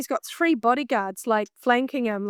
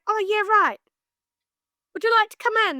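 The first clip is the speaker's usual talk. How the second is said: flustered; 10 semitones higher, 4 dB louder, faster than usual. Retold or imitated. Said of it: "I just was awkward".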